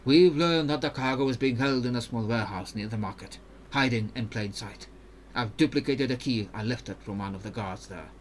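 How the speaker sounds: put-on careful, even-toned Ionian accent; Mirim, Ionian accent. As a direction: explain the mission in a measured Ionian accent. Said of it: "when I'm doing an accent".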